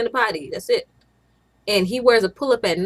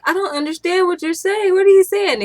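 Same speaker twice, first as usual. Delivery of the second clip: high, louder baffled plea to her son; acting out her own confusion, pitched up; confused asking; 10 semitones higher, 6 dB louder than usual. Mom to her four-year-old, pitched-up baffled asking. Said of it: "And I'm like".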